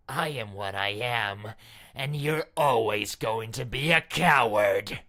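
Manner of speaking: a furious outburst calling him a coward; angry shout. Acted. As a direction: hurl the insult at him. Princess berating the hero.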